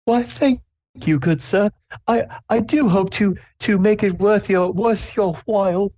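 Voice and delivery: very high, prim elf, slowing on the end; a fussy, courtly high elf voice; high polite elf. Acted. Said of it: "the skinny elf goes".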